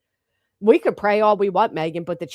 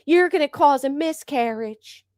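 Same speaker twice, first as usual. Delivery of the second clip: mock quote; 5 semitones higher than usual. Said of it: "a clip of Reality saying".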